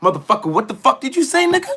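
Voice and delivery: loud, high, fast mock yell; mock angry comeback. Wrestler imagining shouting down the writer, loud mock anger. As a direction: snap back hard at the critic, half joking. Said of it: "I'd be like".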